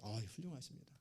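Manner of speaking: mock praise. Mock praising a boastful person.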